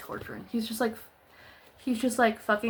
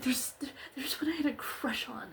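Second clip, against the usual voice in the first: softer, half-whispered admission; soft confession; 3 semitones higher, 7 dB quieter than usual. Retold or imitated. Mocking the character's confession to the group, a soft half-whispered admission. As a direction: let it slip out like a shy secret. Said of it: "and then he's like".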